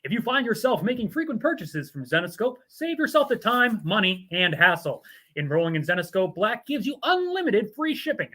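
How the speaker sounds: brisk promo read. Acted. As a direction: pitch free shipping like a commercial. Continues the sponsor ad.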